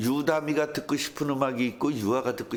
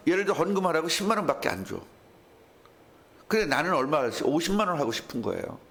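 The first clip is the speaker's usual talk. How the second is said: ordinary talk, nothing marked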